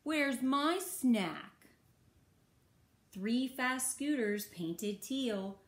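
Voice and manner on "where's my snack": higher-pitched indignant yelp; storybook yak's cross yelp; mad yelp. A narrator's reading. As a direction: yelp it out like a put-out yak. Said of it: "One mad yak yelps".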